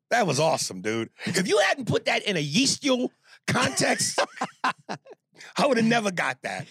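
laughing through the words; cracking up while talking. Real, not acted. Laughing at yeast joke.

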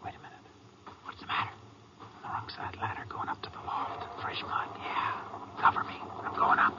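hushed, urgent whisper; tense whisper. Acted. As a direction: whisper so the hiding man won't hear. Sneaking up on hidden robber.

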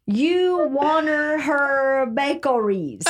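"wanner" read slowly as spelled, laughing; laughing misreading. Retold or imitated. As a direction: stumble through "wanner" while laughing. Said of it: "W A N R".

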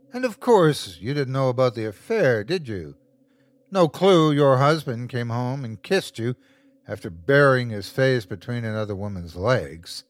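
gloating demon relishing fear; sinister creature. Acted. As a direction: savour every word like a monster. Creature voice in story.

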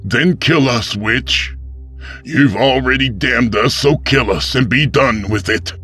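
high, loud, bitter challenge; defiant. A narrator's reading. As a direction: dare the witch to finish it. Pastor defies the witch.

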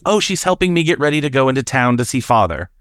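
a hint of chirpy British child; British little girl. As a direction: imitate a playful English girl. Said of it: "she has a British accent".

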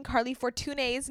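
Fortune's said as "for-too-NAYS"; Fortune's in three syllables, accent on the end; accented final E. Retold or imitated. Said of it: "I don't see a accent at the".

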